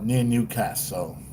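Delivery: slow, soft attempt at Australian; softly imitated Australian twang; mimicked Australian accent. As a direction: parrot it slowly in a rough Australian accent. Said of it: "how much I try to mimic her accent".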